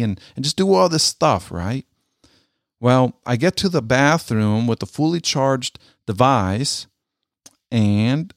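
ordinary talk

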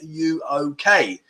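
slow, drawn-out check; drawn-out question to a child; checking on his boy. Retold or imitated. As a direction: ask it slowly, word by word. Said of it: "looked at him and went".

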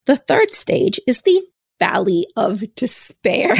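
can't keep a straight face; amused, chuckling as she names it; laughing. Real, not acted. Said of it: "I shouldn't be laughing at this".

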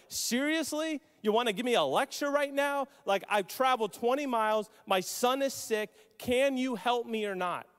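mildly indignant, impatient questioning; exasperated disbelief. Retold or imitated. A father imagined answering Jesus' rebuke, exasperated disbelief. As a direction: press for an answer, fed up with waiting.

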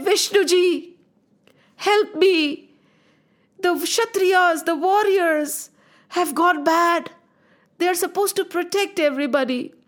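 pleading Mother Earth. Acted. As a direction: beg the god to end her children's pain.

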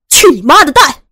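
loud, furious shouted curse. A narrator's reading. Beaten brother cursing the gunman, shouting furiously. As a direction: hurl the curse at him. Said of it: "孙伟骂了于少辉一句".

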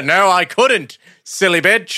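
giggling mock taunt; laughing taunt. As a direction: tease through a laugh. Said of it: "continuing the Klingon joke".

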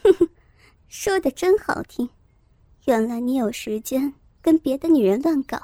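cold sneer. Acted. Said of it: "周慧敏冷笑着说".

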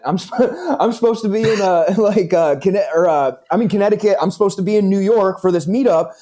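laughing through a high Jersey voice; Jersey accent. Retold or imitated. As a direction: keep the Jersey voice going. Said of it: "thick Jersey accent".

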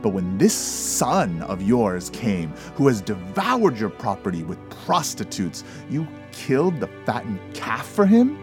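loud, bitter accusation, rising to the end; bitter outburst. A narrator's reading. Elder son yells his grievance at his father. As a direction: hurl years of resentment at him.

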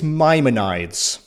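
Maimonides said slowly as MY-muh-nides; model pronunciation. Shown as a demonstration. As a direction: carefully sound out Maimonides with a long eye at the end. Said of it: "just needed to hear you say that".

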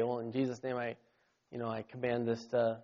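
quiet, timid half-hearted command; soft, too nice. Acted. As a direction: command it nicely, barely voiced. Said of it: "it's a little soft and everything".

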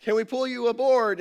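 lightly hammed-up rescue shout; mock blast from helicopter. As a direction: helicopter crew calling to the pastor, mild mock shout. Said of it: "they blast".

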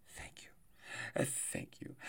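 hushed whisper. Pretend. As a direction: drop to a breathy whisper. Whispers after a rhetorical outburst.

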